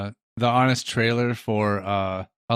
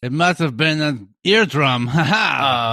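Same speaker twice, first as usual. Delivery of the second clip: put-on hammy French accent with a laugh; slower than usual. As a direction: play the joke in French accent. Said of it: "Hence my French accent".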